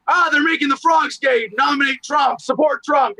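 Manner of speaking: lightly mocked ranting pundit; Alex Jones. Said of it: "somehow he was like".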